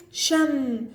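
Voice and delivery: شم as one syllable with a long hummed final م; sounds blended. Shown as a demonstration. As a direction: blend ش into م and hold it. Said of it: "بحاول أقرأها أنا دمج".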